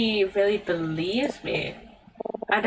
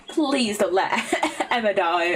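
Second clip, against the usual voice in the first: laughing; much slower than usual. Acted. Begging game not to kill Emma.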